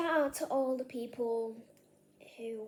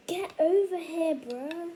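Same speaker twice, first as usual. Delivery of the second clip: louder, higher call; 4 semitones higher, 6 dB louder than usual. Real, not acted. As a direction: call it out sharply. Grabbing the fizz bomb.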